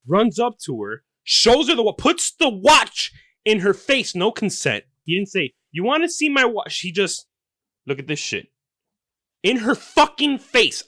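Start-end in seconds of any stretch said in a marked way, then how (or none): 1.2-10.8 much higher, louder indignant shout; outraged yelling. Acted. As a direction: rant like a furious dad.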